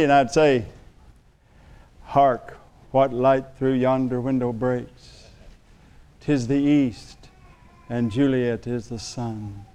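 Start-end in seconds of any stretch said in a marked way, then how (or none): 2.0-9.6 slow, soft theatrical Shakespeare recital; lightly hammed-up Romeo reading; hammy stage actor. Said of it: "habit of quoting Shakespeare".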